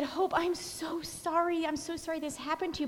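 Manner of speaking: hushed, heartfelt concern; retold sympathy. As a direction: console a hurt friend gently. Retold sympathy to injured friend.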